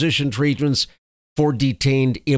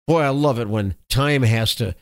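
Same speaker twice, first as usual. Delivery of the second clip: gloating relish; 3 semitones lower than usual. Real, not acted. Gloating over Newsweek correction.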